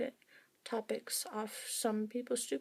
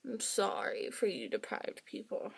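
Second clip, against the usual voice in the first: sorry that comes out sarcastic; mock-pitying apology; sarcastic-sounding; 5 dB quieter than usual. Real, not acted. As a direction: apologise with an unintended sarcastic edge. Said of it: "That sounded very sarcastic".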